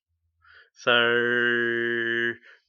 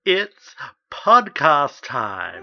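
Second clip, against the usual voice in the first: drawn out, louder showtime call; slow dramatic announcement; 3 semitones higher, 6 dB louder, much slower than usual. Acted. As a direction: announce it like a big reveal.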